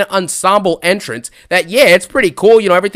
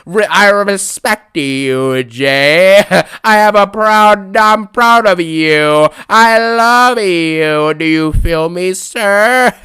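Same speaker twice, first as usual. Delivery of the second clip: mock Cody Rhodes; much slower than usual.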